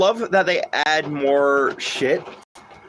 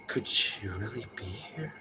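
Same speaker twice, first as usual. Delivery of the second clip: shaky and nervous; 4 semitones lower, 15 dB quieter, slower than usual. Shown as a demonstration. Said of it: "gotta sound kinda shaky and kind of nervous".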